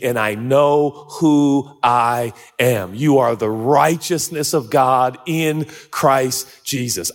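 slow, low, firm words to the accuser; calmly stare down the voice of sin; defiant retort. Pretend. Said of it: "mock it and say".

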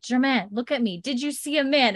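mildly acted panic; retold panic. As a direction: imitate an anxious mother questioning a child. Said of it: "starting to get panicky real fast".

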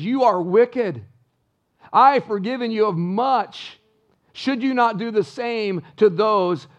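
slow, deliberate rebuke from a king; the king condemns his servant, slow and stern; stern king rebuking. Acted. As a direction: weigh each word like a judge passing sentence.

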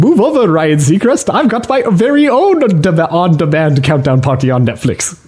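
a light, lightly voiced cartoon lemur king; King Julian voice. Co-host reads the lemur king's statement in a light put-on voice. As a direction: proclaim it like a showy lemur king, only hinted. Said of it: "King Julian said in a statement".

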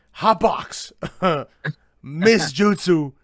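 loud, slow, drawn-out bro callout; frat bro. Retold or imitated. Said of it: "Tokito just goes like".

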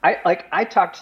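high, laughing through the words. Real, not acted. Guest laughs at his wavering partner.

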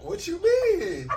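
high, slow, drawn-out what; floored, can't believe the question; stunned disbelief. Real, not acted.

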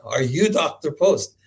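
slow Eastern European "Are you Doctor Post?"; Eastern European accent. Retold or imitated. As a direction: imitate an Eastern European stranger, slowly. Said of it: "this very Eastern European accent".

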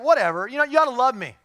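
loud, high mock plea from a smelly husband; stinky husband. A pastor mocking a smelly husband to his congregation, loud and high. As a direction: ham up the lazy slob begging for love. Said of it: "a stinky man who's just like".

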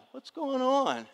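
high-pitched naive call; oblivious movie victim. Acted. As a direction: play the clueless horror-film victim, voice way up. Voices oblivious horror-film characters.

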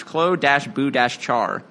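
Klo, Boo, Char slowly, each syllable set apart; spelled-out syllables. Shown as a demonstration. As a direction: read "Klo dash Boo dash Char" slowly, dashes spoken. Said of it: "the way he typed it".

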